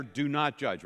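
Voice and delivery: low, soft and half-hearted; dutiful, quiet group recital; unenthusiastic. Shown as a demonstration. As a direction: mumble it like a reluctant crowd. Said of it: "I say it with enthusiasm now".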